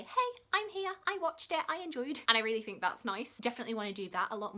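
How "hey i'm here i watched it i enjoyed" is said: much higher, bright and perky; perky comment voice, much higher; cheery message. Retold or imitated. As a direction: chirp it like a happy little comment. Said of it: "just to leave a little message to say".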